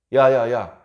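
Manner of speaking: hammed-up proud bragging; boasting. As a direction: call them over, then brag loud, high and drawn out. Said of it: "이렇게 막 자랑한다는 것이죠".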